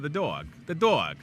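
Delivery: "dog" in a playful Jersey accent; lightly exaggerated Jersey accent. Shown as a demonstration. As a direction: lean on "dog" like a Jersey local. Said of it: "like, a Jersey accent".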